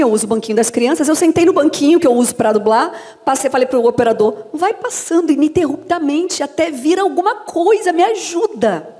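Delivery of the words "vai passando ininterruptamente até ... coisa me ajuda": higher, slow drawn-out pleading; desperate plea. Retold or imitated. Dubber begging the operator to keep playing, slow high plea. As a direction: stretch out the plea for help.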